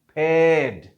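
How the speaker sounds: फेड said as peɖ, no R; non-rhotic paired. Shown as a demonstration. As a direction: say फेड with no R at the end. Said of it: "पेड कहते हुए फिर आप आर को नहीं पढ़ते".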